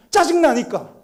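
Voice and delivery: high-pitched imitated sulky retort; irritated child. Older son answering dad, imitated irritation. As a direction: answer back like an annoyed kid. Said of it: "왜 그렇게 짜증내".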